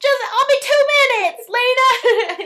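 shrill holler, very high and very loud. Imitating the aunt played by Paula Deen telling Lena she'll be two minutes. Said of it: "I love how she's like".

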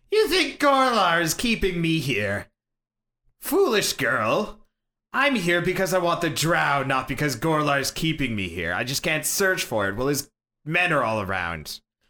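creature voice with echo. Voicing a Kenku creature that has just cawed at the party: Kenku voice. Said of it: "Kenku kind of mirrored is like".

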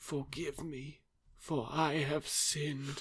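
very soft, hushed, humbled voice. Retelling a scene where a character breaks down on his knees: retelling quiet speech. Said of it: "He quietly says".

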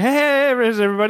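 oily, sleazy lounge-act showman voice. Describing a sketch's Muppet performer, imitating a sleazy entertainer. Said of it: "he's like this sleazy entertainer who's just like".

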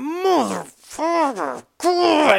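acted-out muttering in pain. Recounting a leg cramp in front of a stranger, retelling pained muttering. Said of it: "And then I do it again".

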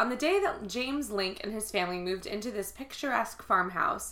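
plain

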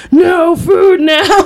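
high, slow, mock wail of despair.

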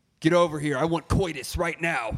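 put-on loud, raspy older smoker voice. Acting out the 65-year-old woman who controls the speaker's life: older smoker voice. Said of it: "I don't know why I did it in that voice".

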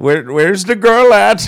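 put-on Indian accent, high-pitched and loud. Retelling cruise ship security coming in asking for the girl, imitating his Indian accent. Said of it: "he's got that that that voice".

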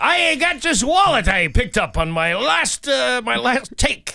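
very high, slow, drawn-out pirate voice. Playing a pirate who explains where he got a wallet: pirate voice. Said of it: "how does a pirate afford that?".

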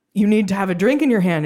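light, half-hearted put-on Irish accent. Retelling a wedding-party guest at a piano bar pushing a drink, thick irish accent. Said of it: "in this like very thick Irish accent comes up to me and he's like".

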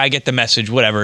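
plain

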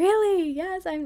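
barely contained excitement.

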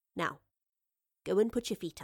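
ordinary delivery, nothing marked

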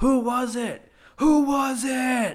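put-on very high, drawn-out, furious hollering. Retelling how an angry surfer paddles back out: imitating someone yelling. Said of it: "And they start yelling".

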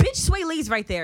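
put-on, very high, loud, shrill angry outburst. Retelling how a friend announced someone's arrival: imitating an angry friend. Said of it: "her very angry always for no r-".

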